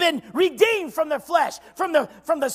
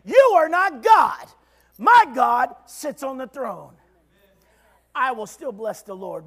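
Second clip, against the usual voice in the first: defiant rebuke; 2 semitones lower, 4 dB louder than usual. Acted. Preacher rebuking the flesh, slow and defiant. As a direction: tell the flesh off. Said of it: "smack flesh upside the face and say".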